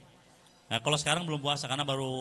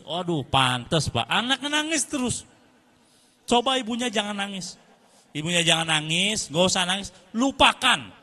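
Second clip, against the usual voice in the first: advising the mother; 4 semitones higher, 3 dB louder than usual. Retold or imitated. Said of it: "Kata saya".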